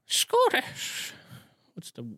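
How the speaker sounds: whispered high aside. Real, not acted. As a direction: breathe the word out. Whispered aside correcting himself.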